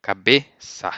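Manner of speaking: cabeça with the cedilla as an s; ka-BE-sa, clearly; Portuguese cabeça. Shown as a demonstration. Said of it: "So you say".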